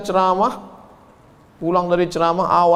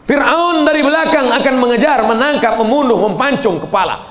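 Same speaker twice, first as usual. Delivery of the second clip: louder, higher urgent storytelling; dramatic urgency; 7 semitones higher, 5 dB louder than usual. A narrator's reading. Preacher dramatizing Pharaoh's army closing in, urgent. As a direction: build the danger of the chase.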